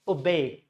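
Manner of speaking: obey as uh-BEY, schwa first; obey with a weak first vowel and stressed end; stress on second syllable. Shown as a demonstration. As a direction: reduce the O of obey, lean on BEY. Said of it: "Schwa sound and B E Y".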